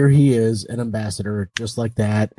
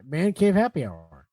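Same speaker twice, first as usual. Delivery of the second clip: repeated for emphasis; 3 dB quieter than usual. Retold or imitated. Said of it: "What'd you say?".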